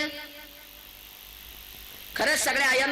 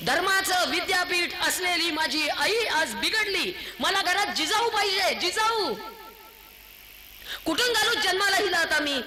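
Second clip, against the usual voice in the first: high-pitched, impassioned sermon scolding; indignant preaching; 7 semitones higher than usual. Real, not acted. (संतापलेल्या सुरातलं उंच आवाजातलं प्रवचन)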